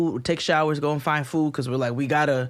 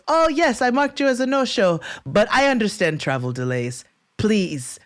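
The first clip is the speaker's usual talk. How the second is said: mock-polite clerk, pitched way up; sugary receptionist, much higher; 7 semitones higher than usual. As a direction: play the overly sweet hotel clerk. Hotel clerk voiced in story.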